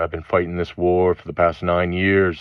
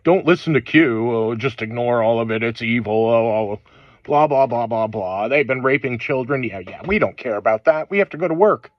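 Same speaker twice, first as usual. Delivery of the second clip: mocking dismissive people; 4 semitones higher than usual. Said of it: "Sitting there".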